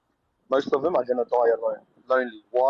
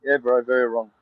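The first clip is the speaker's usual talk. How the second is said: muffled, like through water; speaking from underwater. Real, not acted. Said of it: "You sound like you're underwater".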